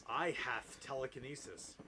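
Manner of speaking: slow, lightly hammed villain line; cruel answer. Voldemort answering the narrator, mock cruel and slow. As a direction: draw it out with mild mock cruelty. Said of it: "he answered cruelly".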